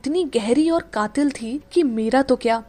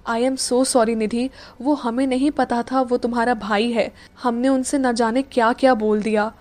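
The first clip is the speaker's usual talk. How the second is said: sadly. Acted. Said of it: "Meera ने उदास होकर कहा".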